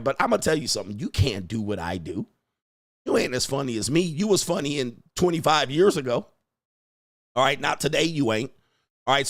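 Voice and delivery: ordinary delivery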